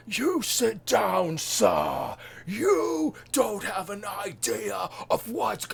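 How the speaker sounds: high, loud, drawn-out British bellow; boisterous Parliament speaker. Retold or imitated. Streamer mimicking Parliament's main speaker, boisterous British accent. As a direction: imitate a boisterous British speaker calling order. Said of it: "boisterous with his accent".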